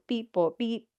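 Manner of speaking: beeping like a little toy robot; robotic beeps, slow and mechanical. Retold or imitated. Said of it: "J J went into robot mode".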